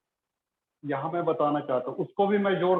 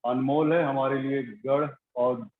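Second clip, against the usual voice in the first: even, slightly subdued praying voice; spoken prayer; 3 semitones lower than usual. Real, not acted. Pastor praying to the Father before the message, evenly and reverently. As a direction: pray aloud in an unbroken, level murmur of devotion.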